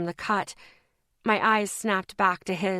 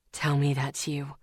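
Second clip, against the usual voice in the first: weak, pleading man; 5 semitones lower than usual. A narrator's reading.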